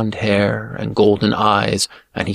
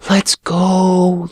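high, eerie sword voice; high, otherworldly whisper; 9 semitones higher than usual. A narrator's reading. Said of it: "the sword whispered".

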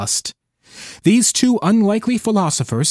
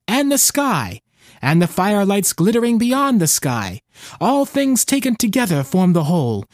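put-on old fisherman voice; 4 semitones higher than usual. Fisherman's speech in story.

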